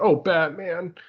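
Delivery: high, mock weepy voice on the verge of sobbing. Retelling a comic scene where Robin reacts to Batman retiring: mock crying as Robin. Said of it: "He starts crying".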